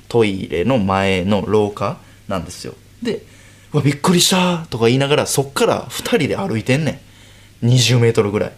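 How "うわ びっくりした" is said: mock surprise. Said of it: "僕が普通にびっくりする".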